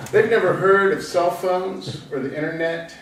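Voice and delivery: recited lines with pauses between phrases; poetry reading. Acted. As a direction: read it as a poem, easing down to the last line. Reads own poem aloud.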